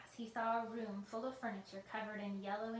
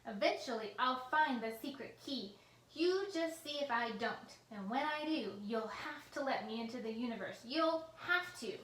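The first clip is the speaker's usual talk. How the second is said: furious rant; 3 semitones higher, 7 dB louder than usual. A narrator's reading. Villain threatening the computer, loud furious rant.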